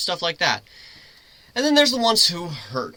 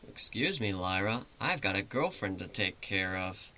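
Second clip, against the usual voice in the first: softer aside; 5 semitones lower, 9 dB quieter than usual. Acted.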